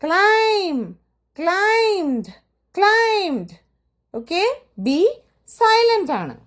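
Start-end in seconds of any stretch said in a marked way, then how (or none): 0.0-3.6 ക്ലൈം and ക്ലൈംഡ് repeated slowly with high, clear falls and no b; repeat-after-me drill of ക്ലൈം, ക്ലൈംഡ് with silent b. Shown as a demonstration. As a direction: lead the class through ക്ലൈം and ക്ലൈംഡ് with the b silent. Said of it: "എൻ്റെ കൂടെ തന്നെ ഒന്ന് പറഞ്ഞേ".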